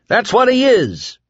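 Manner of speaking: high, loud insistence; insist, voice cracking high. A narrator's reading. Whitney insisting to crowd about Flagg, loud. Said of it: "Whitney insisted".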